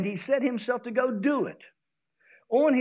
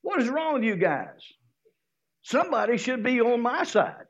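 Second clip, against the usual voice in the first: frustrated blaming; 2 semitones higher than usual. Pretend. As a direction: whine and blame the disciples. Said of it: "He can start blaming".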